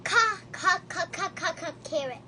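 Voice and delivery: teacher drilling the ca sound of carrot. Shown as a demonstration. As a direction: repeat ca ca ca, then the full carrot. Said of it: "teacher sounds out for a child".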